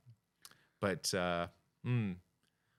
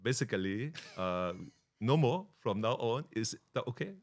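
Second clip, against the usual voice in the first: mock Asian-accented official; put-on Asian accent. Guest pretends an embassy is refusing permission, mock Asian accent. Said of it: "it's so much fun doing accents".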